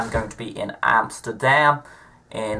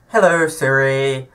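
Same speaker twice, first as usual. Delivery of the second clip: attempted Scottish accent. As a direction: try out a Scottish accent on the phone, a bit overdone. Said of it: "me trying to do a Scottish accent".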